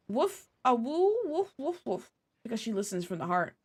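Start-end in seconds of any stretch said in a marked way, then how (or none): 0.1-2.1 light mock woofs; playful barking. Streamer reading the dog's lines as playful woofs. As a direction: bark like a friendly dog. Voicing dog barks.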